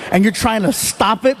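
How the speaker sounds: ordinary talk, nothing marked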